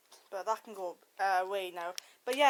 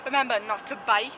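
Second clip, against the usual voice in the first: speaking with a numb mouth. Real, not acted. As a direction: talk like your mouth is numb from the dentist. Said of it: "my whole mouth is numb".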